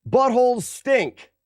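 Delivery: high, slow silly voice. Pretend. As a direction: say it slow and goofy. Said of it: "Ready? Watch this".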